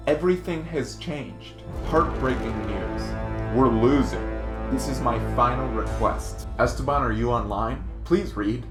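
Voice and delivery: ordinary talk, nothing marked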